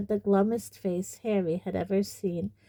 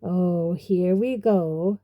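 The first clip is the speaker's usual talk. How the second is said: slow, louder weary resentment; bitter; 5 dB louder, slower than usual. Acted. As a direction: groan it out with bitterness. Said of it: "said Nearly Headless Nick bitterly".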